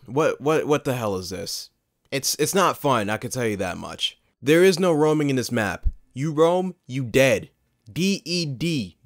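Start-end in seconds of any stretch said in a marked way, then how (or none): 4.4-7.5 loud. Real, not acted. Ranting about the map. 7.9-9.0 D E D spelled slowly letter by letter. Real, not acted. Spelling out dead for effect.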